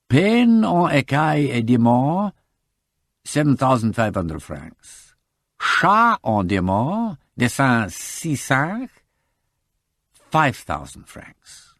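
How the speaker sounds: slow, deliberate reading of an entry; reading a ledger aloud. Acted. Reading the February entry from the day book, slowly. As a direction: read each item out carefully.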